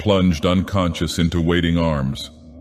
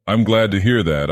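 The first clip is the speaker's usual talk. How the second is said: sarcastic; 3 semitones higher than usual. Acted. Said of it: "I replied sarcastically".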